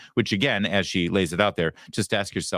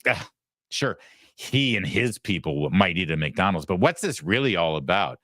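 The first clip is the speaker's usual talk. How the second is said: mock snobbish condescension; a touch of haughty scorn; elitist disdain. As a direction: imitate a disdainful news anchor. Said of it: "the entire elitist attitude from this".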